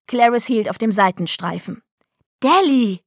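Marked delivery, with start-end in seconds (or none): 2.4-3.0 higher, sharp call of the name; angry yell. A narrator's reading. Mother stopping the car, angry yell at Delly. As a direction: call out crossly, half-roared. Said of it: "brüllte sie".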